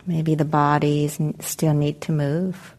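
calm, unhurried meditation guidance with long pauses; guided meditation. Real, not acted. Meditation teacher helping the group settle into their seats, calm guided meditation. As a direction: guide them gently into arriving, leaving space between phrases.

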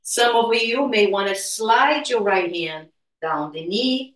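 normal talking voice

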